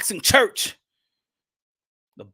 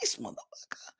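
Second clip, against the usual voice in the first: amazed; 9 dB quieter, faster than usual. Retold or imitated. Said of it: "I'm like".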